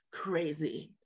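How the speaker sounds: whispered dramatic reveal. Acted. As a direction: drop to a whisper for effect. Dramatic beat in the news read.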